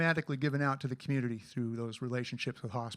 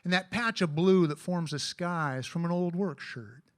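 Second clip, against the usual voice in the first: cowboy poem recitation; cowboy poetry. Acted.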